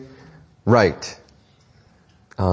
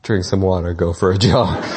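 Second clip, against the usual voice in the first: kids mimicking dad; 6 semitones lower than usual. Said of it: "they're like".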